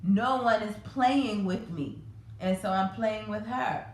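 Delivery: a light hint of a small child, slow and drawn out; imitating her daughter. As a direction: mimic the little girl's slow explanation. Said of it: "that's how she said it".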